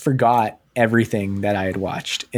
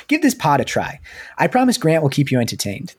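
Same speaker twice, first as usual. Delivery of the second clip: put-on higher-pitched, clumsy New Jersey accent; amateur Jersey read, pitched up; bad New Jersey accent; 4 semitones higher than usual. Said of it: "This is really bad".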